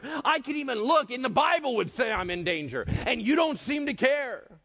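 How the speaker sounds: acted outrage building to high, loud shouting; ranting complaint. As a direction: work yourself up into accusing God of not caring. Acted angry complaint to God.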